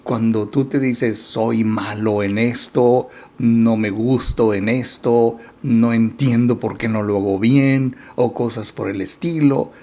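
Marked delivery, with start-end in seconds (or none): 1.2-8.0 harsh self-criticism. Shown as a demonstration. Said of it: "Fíjate cómo cambia la intención".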